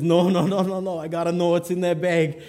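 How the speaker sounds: worked-up, stubborn insistence; insistent refusal. Acted. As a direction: override a screaming friend. Driver overrides screaming friend in story.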